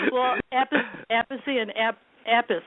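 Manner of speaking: Apis said as AP-us, plain English; wrong pronunciation. Shown as a demonstration. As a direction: say Apis like AP-us, short and flat. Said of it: "so if it's Appice".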